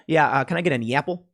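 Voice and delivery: quick request with a Chicago "e apple"; Chicago accent. Retold or imitated. Unwitting Chicagoan asking for an apple, Chicago accent. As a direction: order fruit in a broad Chicago accent. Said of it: "wouldn't even realize I said".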